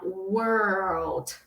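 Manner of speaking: world with the tongue curled back through the r and l, slowly; the correct world with the curled r. Shown as a demonstration. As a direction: roll the tongue hard on world. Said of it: "Eu dou essa enrolada".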